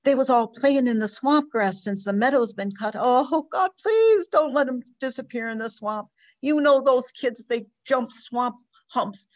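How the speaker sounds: mother pouring out fear for her lost son, rising to panic; distraught mother. Acted. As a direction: spill out the fear until it breaks at the top. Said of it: "poured the story out".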